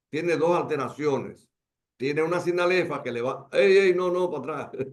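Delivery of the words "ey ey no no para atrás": calling out. Real, not acted. Calling to slide operator.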